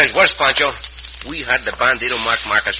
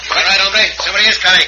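higher and louder, urgent warning; urgent alert; 12 semitones higher, 8 dB louder than usual. Acted. Cisco warning the bandits someone comes, loud and urgent. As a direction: shout the alarm mid-fight.

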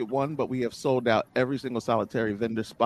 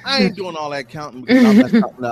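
laughing; 7 semitones higher, 9 dB louder, faster than usual. Real, not acted. Laughs off the counting.

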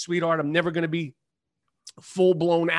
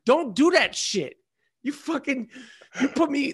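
higher, heated telling-off; angry scolding; 5 semitones higher than usual. Retold or imitated. Telling off a fan who ran at him, heated. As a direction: scold the stranger hard. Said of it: "I was like".

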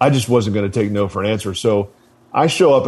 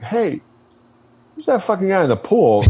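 higher, rough mock drill-instructor shout; retold instructor yell; 8 semitones higher than usual. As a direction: bark it like an annoyed instructor at the pool. Drill instructor yelling at recruit.

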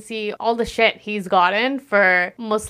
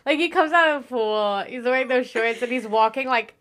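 giggly, higher gushing; giggling; 3 semitones higher than usual. Real, not acted. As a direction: laugh through the praise like a smitten fan. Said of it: "giggly gushing".

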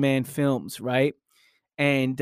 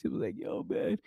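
hushed whisper; 13 dB quieter than usual. Retold or imitated. Friend crying in the movie theater.

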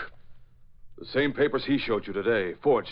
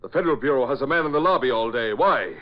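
angry interrogation; 4 semitones higher, 5 dB louder than usual. Acted. Nazi agent confronts Patton angrily.

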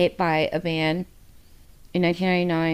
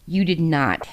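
disbelief that drops to a breathless whisper; imitating her own stunned reaction to a death in the book; 3 semitones lower, 4 dB quieter than usual. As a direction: fade from stunned to a whispered ending. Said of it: "And I'm just like".

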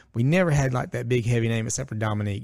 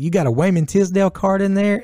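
put-on player asking kid; 9 semitones higher, 5 dB louder than usual. Player asks for card.

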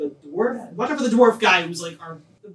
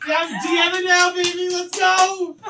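excited shout; 9 semitones higher than usual. Real, not acted. DM hyped about running game.

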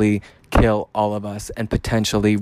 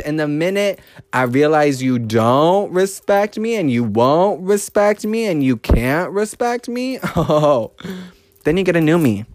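higher, slow, building threat with a laugh; menacing warning; 5 semitones higher than usual. Real, not acted. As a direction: warn them what comes next.

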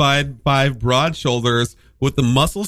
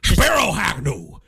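Futurama Nixon voice; slower than usual. Retold or imitated. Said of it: "more like this and less like this".

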